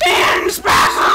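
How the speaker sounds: shouting with a cracking voice. Real, not acted. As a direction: voice breaks mid-shout. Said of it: "that was a long voice crack".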